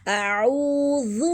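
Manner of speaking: slow chanted اعوذ with long oo and soft dh; soft dhal. Shown as a demonstration. Teacher modelling for students, اعوذ slowly with soft dhal. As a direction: draw out اعوذ, ending on a gentle short "dhu". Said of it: "پیش کو ضمہ جو ہے اس کو مجہول نہیں کرنا".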